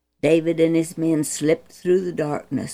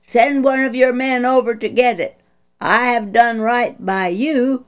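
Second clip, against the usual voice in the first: loud, higher call to the king's camp; 5 semitones higher, 4 dB louder than usual. Acted. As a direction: call across to the king holding up the spear. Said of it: "David called".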